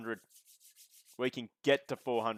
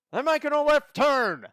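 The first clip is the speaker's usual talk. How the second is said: much higher, loud hammed-up redneck hillbilly accent; 14 semitones higher, 8 dB louder than usual. Shown as a demonstration. Streamer practising a redneck hillbilly accent for chat, hammed-up and shouted. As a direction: yell it like a cartoon redneck race fan. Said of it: "let me just do some practice".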